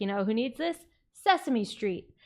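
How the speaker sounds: plain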